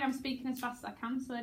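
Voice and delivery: quickly quoted rapid line; fast. Shown as a demonstration. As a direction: run the words together briskly. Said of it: "That's really very fast".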